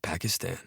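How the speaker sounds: soft groaning word; groaned. Acted. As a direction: let it out as a tired groan. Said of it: "the pilot said it as a groan".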